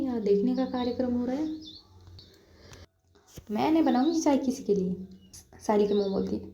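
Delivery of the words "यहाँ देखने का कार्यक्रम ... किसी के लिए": huffy refusal. Acted. Sayli refuses to make tea.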